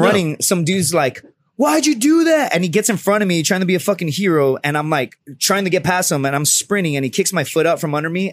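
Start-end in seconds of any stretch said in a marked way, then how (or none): 1.6-2.5 high-pitched indignant question; mock outraged bystander. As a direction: imitate a would-be hero challenging you. Bystander confronts the runner.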